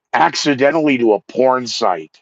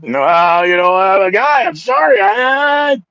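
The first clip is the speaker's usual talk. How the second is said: mock apology; 9 semitones higher, 4 dB louder than usual.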